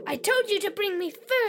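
fast, cheeky echo of the order; copycat mimicry. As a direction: parrot it back cheekily. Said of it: "Stop repeating everything I say".

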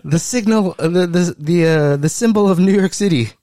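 hammed-up incredulous rant, giggling; laughing mock outrage. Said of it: "And they're like".

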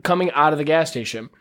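normal talking voice

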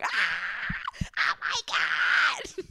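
high whispered shriek, drawn out; very high gasping oh my God; excited squeal. Retold or imitated. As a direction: squeal like a thrilled bestie. Everyone reacting to gossip.

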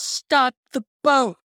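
slow, high-pitched mock yell; lightly hammed-up call; imitated yell. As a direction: draw it out like a retold movie shout. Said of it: "So after Wonka yells".

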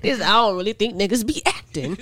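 lightly voiced conspiracy theorist; a hint of a paranoid conspiracy theorist. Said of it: "you got the conspiracy, uh, theorist voice too".

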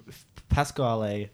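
Pasquale started with an f, Fasquale; mock Fasquale. Shown as a demonstration. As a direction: Pasquale with the P turned into F. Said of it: "You said Fasquale".

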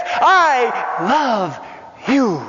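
preacher declaring the Father's love; fervent I love you. Retold or imitated. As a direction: proclaim the Father's love with fire. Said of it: "And he says".

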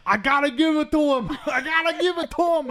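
high, loud rival fan shouting in awe; grudging fan cheer. Retold or imitated. Yankee fans in the stadium, grudging loud cheer. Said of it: "Yankee fans in the stadium are like".

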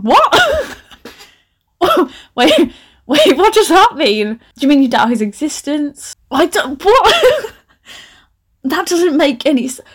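high-pitched incredulous outburst, breaking into laughter; laughing disbelief. Real, not acted. Author baffled by her own story, high amused disbelief.

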